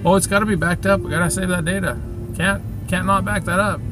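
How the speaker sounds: high, mock-earnest insistence; mocking coworker voice. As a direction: parody a fussy coworker.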